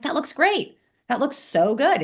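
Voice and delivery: high, bright mock gush; gushing praise. Answering a friend's fajita picture with high gushing praise. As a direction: rave about the photo. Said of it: "I'm like".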